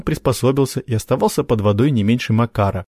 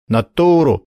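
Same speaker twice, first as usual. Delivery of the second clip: scornful echo of "Натуру", falling; scoffing; 5 semitones higher, 4 dB louder, slower than usual. Acted. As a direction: sneer the word "Натуру". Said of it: "хмыкнул Макар".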